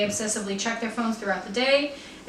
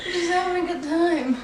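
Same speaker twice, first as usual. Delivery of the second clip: higher, giggling; laughing; 6 semitones higher than usual. Real, not acted. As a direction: laugh through it. Laughing apology.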